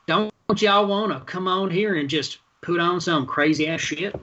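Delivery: imitation Southern accent for a cartoon helper; pseudo Southern accent. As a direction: do a weird fake Southern accent. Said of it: "some weird pseudo Southern accent".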